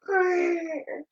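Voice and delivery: soft growl like a cat. A narrator's reading. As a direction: growl quietly, catlike. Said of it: "went Puss in Boots".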